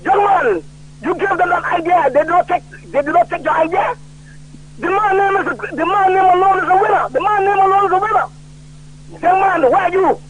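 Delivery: lightly voiced older statesman; a hint of a senior politician praising a young man; quoting Sir John. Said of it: "this is how the man spoke to me".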